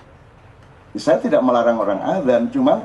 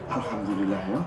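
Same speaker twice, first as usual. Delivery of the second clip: soft, lower, offhand thanks; unimpressed murmur; 8 semitones lower, 12 dB quieter than usual. Shown as a demonstration. Preacher mimics a listener's offhand thanks over a small gift, quiet. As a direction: shrug it off quietly. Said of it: "Jadi Allahu Akbar judulnya adalah takjub".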